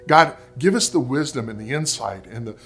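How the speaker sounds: measured, earnest prayer with long pauses; closing prayer. Real, not acted. Pastor praying for struggling parents, in a measured prayer voice. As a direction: pray aloud, softening as it goes on.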